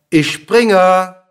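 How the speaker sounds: high, loud call with stretched ending. A narrator's reading. Dwarf announcing his pretended jump to the king, calling out. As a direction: cry it out for the king to hear. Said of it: "dann rief er".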